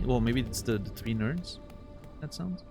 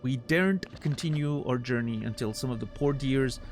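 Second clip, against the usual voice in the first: higher, theatrical flea showman; grandiose flea circus showman; 4 semitones higher than usual. Acted. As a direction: plead like a grand ringmaster. Voices flea master dialogue.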